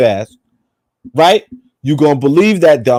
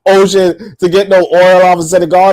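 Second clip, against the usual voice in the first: laughing through the words; slower than usual. Real, not acted. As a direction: chuckle while saying it.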